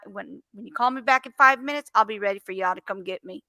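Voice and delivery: sarcastic, playing along with the scammer; hammed-up eager to be arrested; mock-cheerful taunt to a scam caller; mock cooperation.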